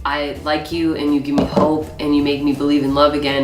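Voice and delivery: understated teary confession; mock emotional Wills. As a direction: lightly imitate a man fighting tears. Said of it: "he kept going".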